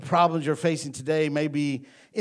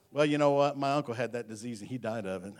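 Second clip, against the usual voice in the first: mock negativity; 3 semitones lower than usual. Preacher mimicking a friend with bad news, mock negativity. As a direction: imitate a gloomy bearer of bad news. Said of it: "when they're negative like that".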